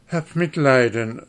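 high, loud cry for mercy; desperate plea. Acted. Dwarf cries to the guest for mercy, desperate. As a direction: beg on your knees. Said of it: "rief der Kleine".

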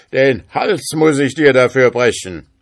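loud, high threat; fearsome spirit calling. A narrator's reading. Spirit threatens to kill the schoolboy, loud menacing call. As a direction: pronounce the doom loudly. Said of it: "rief der Geist".

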